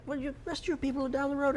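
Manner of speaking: high, quick put-on British accent; mock British voice, hurried. Shown as a demonstration. Retelling what people told the fake Englishman, quick mock British. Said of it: "That's your British accent?".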